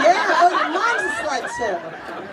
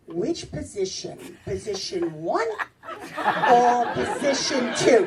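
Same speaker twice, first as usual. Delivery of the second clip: low, slow exam-room questioning; measured optometrist offering two choices; eye doctor in bed; 3 semitones lower, slower than usual. Retold or imitated. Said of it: "The whole time he'd be like".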